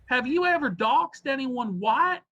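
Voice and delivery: put-on high, pushy Southern accent. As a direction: press the question in a Southern accent. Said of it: "I can do a Southern accent".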